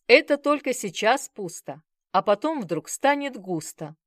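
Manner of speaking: encouraging. A narrator's reading. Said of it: "подбодрил меня Володя".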